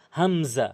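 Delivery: হামজা begun at the bottom of the throat; from throat's start. Shown as a demonstration. Teacher showing where the letter starts, throat-onset হামজা. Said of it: "হলকের শুরু থেকে".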